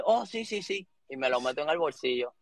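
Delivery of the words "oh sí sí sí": feigned eager yes. Retold or imitated. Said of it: "Le dije".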